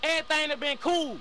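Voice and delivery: loud, furious rant at a teammate; real shouting match in game chat; angry yelling. Real, not acted. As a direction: yell him down with contempt. Heated voice-chat argument.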